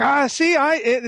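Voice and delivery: giddy excitement in a high voice; happy, lightly imitating Lana. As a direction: gush a little as the delighted writer. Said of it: "she was like".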